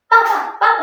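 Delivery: papa, papa with two harsh falling tones; mock angry calling. Shown as a demonstration. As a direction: call papa like a scolding bark. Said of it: "nggak marah-marah".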